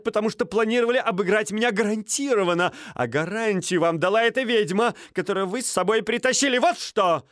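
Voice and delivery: put-on high, heated young noble; agitated accuser. Стольский accusing Стужев of cheating, high and heated. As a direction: hurl the accusation, indignant.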